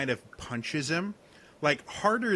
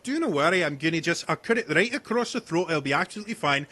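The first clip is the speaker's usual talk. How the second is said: falsely soothing hunter; 5 semitones higher, 4 dB louder, faster than usual. Acted. Hunter NPC reassures while approaching.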